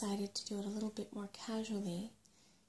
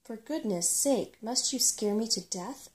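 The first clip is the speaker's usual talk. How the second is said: startled; 2 semitones higher, 6 dB louder than usual. A narrator's reading. Rat startled by Sorrel.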